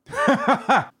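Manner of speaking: безумный высокий хохот; расхохотаться бешено, во весь голос; бешеный хохот. A narrator's reading. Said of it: "бешено расхохотался Суджоу". (бешеный хохот)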